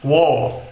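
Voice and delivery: "war" with no R; British war. Shown as a demonstration. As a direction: drop the R in "war". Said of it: "no inglês britânico soaria como war". ("war" sem R britânico)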